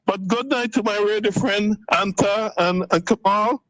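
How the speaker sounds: caller's voice on a phone line; talking down a phone line into the radio; over the phone. Real, not acted. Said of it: "Thanks for calling".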